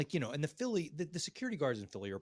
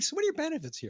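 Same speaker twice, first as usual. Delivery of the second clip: laughing while quoting; 4 dB louder, faster than usual. Retold or imitated. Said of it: "I was like".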